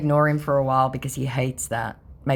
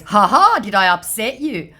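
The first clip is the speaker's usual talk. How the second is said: high laugh, then a teasing question; mocking scammer voice; 6 semitones higher, 5 dB louder than usual. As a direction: needle him with a smug laugh. Reading out the scammer's taunt.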